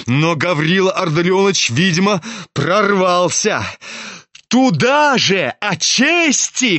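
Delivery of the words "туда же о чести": higher and slow, bitter and mocking; spiteful shout. A narrator's reading. Son mocking his father's talk of honour, spiteful. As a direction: spit the words back at him. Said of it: "крикнул он злобно".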